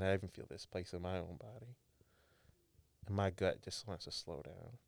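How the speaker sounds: slowed down. Shown as a demonstration. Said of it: "I take a deep breath for me".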